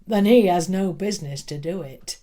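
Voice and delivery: stern schoolmaster. Acted. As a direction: lay down the law. Stern schoolmaster rebukes pupil.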